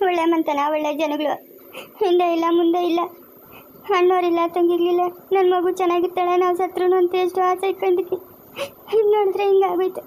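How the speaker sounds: acted weeping, kept at talking level; tearful lament. Mother despairs over her daughter's broken match, tearful. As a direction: grieve aloud over dashed hopes. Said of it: "ಯಾಕೆ ಹಂಗಲ್ತಾ ಇದೀಯಾ".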